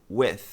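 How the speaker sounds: "with" ending in a hissed TH; voiceless TH. Shown as a demonstration. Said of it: "Como com, W I T H".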